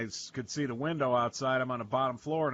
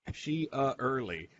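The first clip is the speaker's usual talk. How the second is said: put-on very slow, drawn-out Hispanic accent; imitated Hispanic granny, stretched out; mock Hispanic accent; much slower than usual. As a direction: repeat it slowly in her Hispanic accent. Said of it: "This is my accent".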